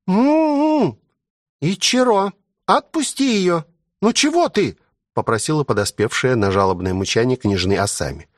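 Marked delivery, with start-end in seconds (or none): 0.1-4.8 put-on high girlish plea to let her go; lightly voiced young woman begging; high-pitched girl asking him to stop; pleading girl. Girl's voice pleading with Ichiro.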